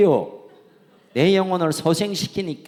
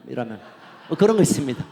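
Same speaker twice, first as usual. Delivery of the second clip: ordinary talk, nothing marked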